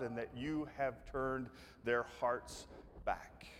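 whispered prayer. Retold or imitated. End of Elijah's prayer.

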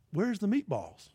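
imitating the disappointed man. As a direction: mope it like a let-down beggar. Repeating the man's complaint.

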